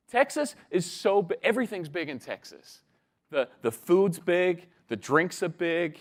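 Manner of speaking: lightly acted excited Texan kid, listing emphatically; a touch of a bragging Texan child; boastful Texan boy. Texan boy bragging to new mate, emphatic boastful listing.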